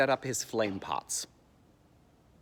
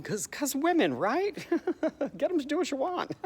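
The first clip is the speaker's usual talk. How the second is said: high-pitched, laughing braggart; hammed-up cad's chortle; mock lecherous chuckling; 13 semitones higher than usual. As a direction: laugh along knowingly between phrases. Acting Don Juan laughing with friend.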